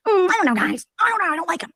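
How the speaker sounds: high, coy put-on voice; imitating a scheming streamer; mock dismissive. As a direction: brush them off with fake innocence. Voicing Farchado dismissing.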